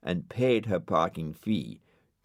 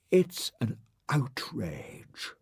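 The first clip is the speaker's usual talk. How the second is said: indignant whisper; 6 semitones higher, much slower than usual. Acted. Ermyntrude indignant.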